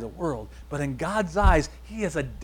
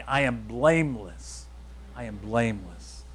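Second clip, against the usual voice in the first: slow, deliberate affirmations with pauses; 4 semitones lower than usual. Shown as a demonstration. Preacher leading listeners to write and repeat the list, very slowly. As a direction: stretch each phrase so they can follow. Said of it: "I'm gonna go through them very slowly".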